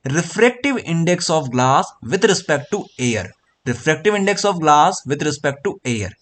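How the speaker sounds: "Refractive index of glass with respect to air" read out word by word, very slowly; slow model pronunciation. Shown as a demonstration. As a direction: spell it out slowly for students to copy. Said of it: "तो आप लोग इसको कैसे pronounce करोगे?".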